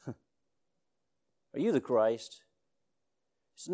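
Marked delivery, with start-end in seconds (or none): 0.1-2.4 slow drawn-out question. Retold or imitated. Preacher mimicking the crowd, slow and drawn out. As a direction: stretch each word out, wondering aloud. Drawn-out repeat after laugh.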